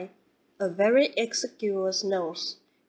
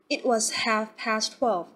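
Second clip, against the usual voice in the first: slow, mildly emphatic correction; mild emphasis; slower than usual. A narrator's reading. Mother correcting her daughter about Randolph, with mild emphasis. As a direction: lean gently on half past twelve. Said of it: "with mild emphasis".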